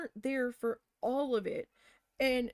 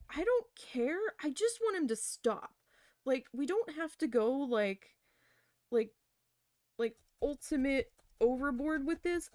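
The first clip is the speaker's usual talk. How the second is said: exasperated plea; 4 semitones higher than usual. Retold or imitated. Venting quoted plea to management.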